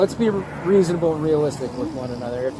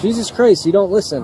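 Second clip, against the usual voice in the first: angry; 3 semitones higher, 5 dB louder than usual. Real, not acted. Officer snaps at driver.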